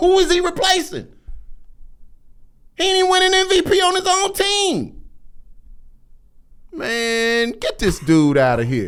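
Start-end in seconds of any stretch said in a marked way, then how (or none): 0.0-7.5 very high voice, drawn-out "man". Arguing about a basketball player, voice jumping way up high. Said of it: "voice go up three octaves".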